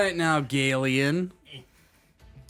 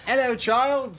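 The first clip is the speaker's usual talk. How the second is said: creepy creature greeting; 13 semitones higher, 6 dB louder, slower than usual. Acted. GM voices the baby-creature greeting.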